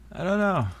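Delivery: high, lilting repeat of I don't know; high sing-song. Real, not acted.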